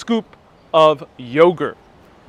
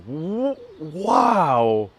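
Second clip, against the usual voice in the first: higher, slow, wondering wow; amazed; 5 semitones higher, slower than usual. Retold or imitated. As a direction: savor the discovery slowly. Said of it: "I was like".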